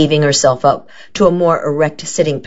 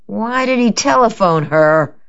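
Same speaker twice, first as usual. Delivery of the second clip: demanding; 7 semitones higher than usual. A narrator's reading. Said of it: "Matilda demanded".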